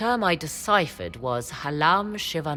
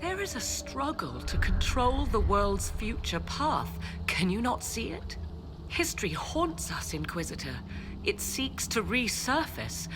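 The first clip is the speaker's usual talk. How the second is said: high, urgent appeal with dramatic swells; impassioned plea; 4 semitones higher than usual. Acted. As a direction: plead the cause with rising conviction. Impassioned plea to sceptical Inquisitor.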